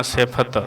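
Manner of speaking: ਸਿਫਤ with a clear aspirated ph sound; careful pronunciation. Shown as a demonstration. Teacher showing students how to read ਸਿਫਤ, careful ਫ. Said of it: "ਧਿਆਨ ਦੇ ਨਾਲ ਫੱਫਾ ਲਾ ਕੇ ਪੜ੍ਹਨਾ".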